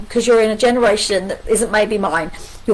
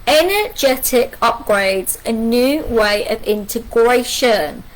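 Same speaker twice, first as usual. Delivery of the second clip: misread card text; slower than usual. Real, not acted. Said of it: "Oh no, sorry".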